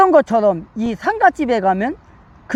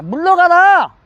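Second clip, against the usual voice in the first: slow, slightly raised quoted order; firm command; 5 semitones higher, 4 dB louder, slower than usual. Acted. Preacher quoting Jesus dismissing the mourners, firm command. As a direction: proclaim it as a command.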